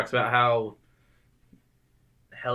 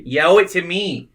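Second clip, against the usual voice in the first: louder mock Boston accent; hammed-up Boston accent, louder; fake Boston accent; 6 semitones higher, 8 dB louder than usual. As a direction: repeat it in a bad Boston voice. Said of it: "fake Boston slang".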